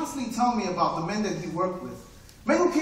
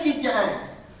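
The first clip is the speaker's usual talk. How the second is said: wife's voice; 4 dB louder, slower than usual. Acted. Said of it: "all she is talking about is eggs".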